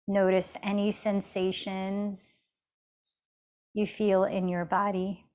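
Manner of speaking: unhurried meditation guide with long pauses; even, measured mindfulness guidance; guided meditation. Acted. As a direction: gently lead an inward check-in, leaving space between phrases.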